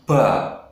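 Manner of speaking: ba with air escaping; wrong breathy ba. Shown as a demonstration. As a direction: let air out on ba. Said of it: "Itu salah ya". (ba yang salah, keluar angin)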